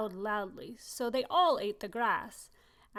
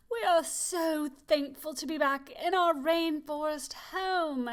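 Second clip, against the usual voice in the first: singsong; 4 semitones higher, 4 dB louder than usual. Acted.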